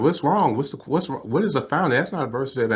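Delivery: alarmed questioning. Retold or imitated. Family trying to find out what's wrong, mock alarm. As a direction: retell a flurry of worried questions.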